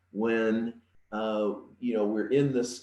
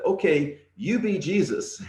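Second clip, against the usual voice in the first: higher, lightly voiced young boy; cheeky little boy; 8 semitones higher than usual. Boy telling his brother to be Jesus, lightly voiced child. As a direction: toss it off like a sly kid.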